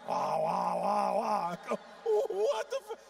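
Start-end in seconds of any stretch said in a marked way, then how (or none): 0.1-1.5 mock wailing. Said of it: "she starts going". 2.3-3.0 high, loud what-the-fuck of disbelief; a much higher, louder cry of shock; shocked outburst. Retold or imitated. Shocked reaction again.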